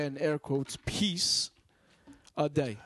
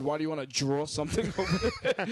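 mocking quote. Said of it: "diminished his shit and said".

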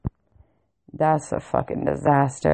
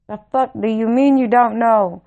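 higher, indignant disbelief; incredulous retort; 4 semitones higher than usual. Retold or imitated. Caller reacts to being told "we don't know", incredulous. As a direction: throw it back as an annoyed challenge. Angry retort to retold response.

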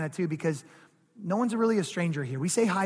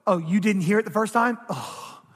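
louder complaint dropping into a sigh; mock exasperation; 4 dB louder than usual. Preacher acts out what God never does, mock exasperated. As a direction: act fed up, then give up on them. Acted impatient God giving up.

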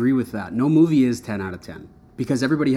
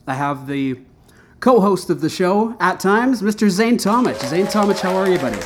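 radio announcer voice; 3 dB louder than usual. Acted. Host welcoming listeners and co-host, radio announcer voice. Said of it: "I like your radio accent".

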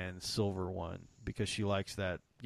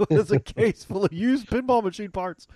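laughing punchline; 11 semitones higher, 10 dB louder than usual. Real, not acted. Joking punchline.

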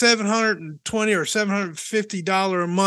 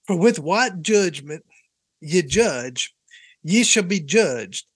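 slow Southern preacher cadence; measured Bible reading in a Southern accent; 3 semitones lower, slower than usual. Shown as a demonstration. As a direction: read scripture like a Southern preacher. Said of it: "should I do it in a Southern accent?".

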